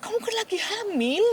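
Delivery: high, startled objection; mock shock at the news; retold disbelief. A mother recalls reacting to her pregnant friend's diagnosis, startled. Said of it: "saya bilang gitu".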